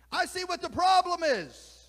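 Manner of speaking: exasperated, then sink into a hushed send-off; exasperated owl. Acted. Owl urges the eagle to look up, exasperated and loud. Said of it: "The owl clucked in exasperation".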